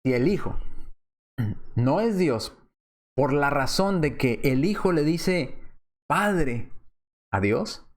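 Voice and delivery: slow it down so they follow. Shown as a demonstration. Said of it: "vuelvo a repetir más despacio". (más despacio, con pausas)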